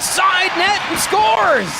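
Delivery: goal call. Real, not acted.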